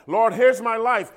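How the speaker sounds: a hint of a showy prayer, lifted up high; mock grand surrender. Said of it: "Here's how some people surrender themselves".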